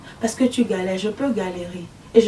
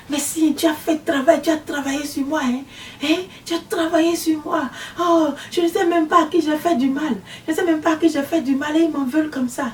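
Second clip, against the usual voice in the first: higher, pleading and overdone; mock gushing woman; 5 semitones higher than usual. Witch pretends gratitude to the visionary, higher and pleading. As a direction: play the falsely grateful woman.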